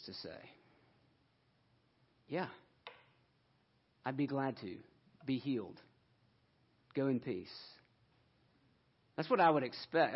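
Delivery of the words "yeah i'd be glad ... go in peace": soft, unhurried blessing; quietly reassuring, with pauses between phrases; mild, kindly reply. Acted. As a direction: say it gently, as if granting a request. Voices the gentle Jesus one expects.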